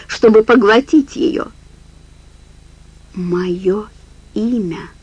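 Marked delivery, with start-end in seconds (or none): 3.1-4.9 muttering. Acted. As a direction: mumble it under your breath. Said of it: "пробормотала она". (бормоча)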